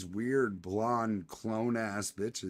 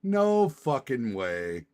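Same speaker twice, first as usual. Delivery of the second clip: slow, louder "No fucking way" with NO leaned on; emphatic disbelief; 4 dB louder, slower than usual. Real, not acted. Streamer repeating the news, slow emphatic disbelief. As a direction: drag it out, every word landing.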